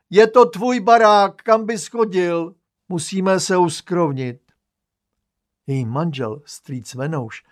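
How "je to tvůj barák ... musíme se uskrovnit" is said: loud, higher hearty yelling; aunt's bellow. Acted. Aunt to her brother about the house, hearty loud yell. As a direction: boom it out, friendly but loud. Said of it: "teta řve neustále".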